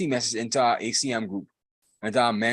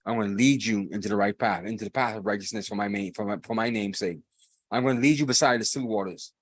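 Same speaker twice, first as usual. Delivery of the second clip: gentle voice of God; 3 semitones lower than usual. Retold or imitated. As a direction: speak as a loving shepherd to his son. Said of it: "that voice calling from above that says".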